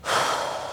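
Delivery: soft, unvoiced puff of breath; exertion sigh. Real, not acted. Coach breathing through a hard set, heavy exhale. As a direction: blow the breath out from effort.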